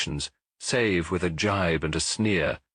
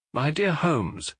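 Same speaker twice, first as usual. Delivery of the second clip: Watson protesting; 7 semitones higher, slower than usual. Acted. Watson protests Holmes's deductions.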